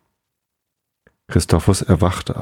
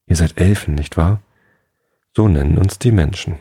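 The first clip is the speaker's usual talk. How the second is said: calm, even storytelling for sleep; bedtime story narration. A narrator's reading. Podcast host reads a bedtime fairy tale, calm narration. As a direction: read it gently to drift off.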